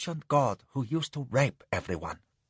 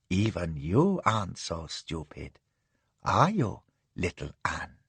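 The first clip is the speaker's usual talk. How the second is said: much lower, softer, lazy contempt; dismissive lady; 4 semitones lower, 4 dB quieter than usual. Acted. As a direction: brush him off coolly. Madam dismissive then cold.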